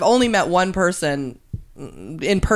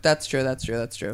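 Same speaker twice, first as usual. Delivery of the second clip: fading away; 6 semitones lower, 6 dB quieter than usual. Real, not acted. Repeats agreement, fading away.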